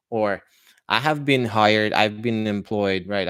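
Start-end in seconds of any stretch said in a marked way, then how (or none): 0.9-3.1 American English with a sounded R; American accent. Shown as a demonstration. Teacher giving students the other version, American accent. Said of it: "more like an American version".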